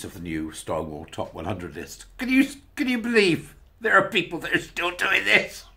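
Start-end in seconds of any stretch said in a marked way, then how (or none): 2.2-5.7 whispered disbelief; whispered amazement at people still doing this; incredulous whisper. Real, not acted. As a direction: hush it like a shocked secret. Incredulous aside.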